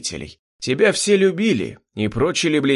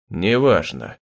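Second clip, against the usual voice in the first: low-pitched, cold dismissal; icy voice; 6 semitones lower, slower than usual. A narrator's reading. The twin dismisses his brother's objection, icy. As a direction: brush it off coldly in a lowered pitch. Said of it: "ледяным голосом проговорил близнец".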